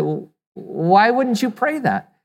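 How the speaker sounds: slow, puzzled retold question; mildly baffled, drawing out the question; taken aback. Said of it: "they were taken back by that".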